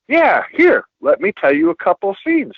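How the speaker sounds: eager retold reply.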